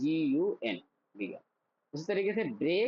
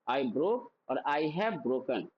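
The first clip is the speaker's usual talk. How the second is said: slow drill; 3 semitones lower, much slower than usual. Shown as a demonstration. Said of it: "मेरे साथ practice करना".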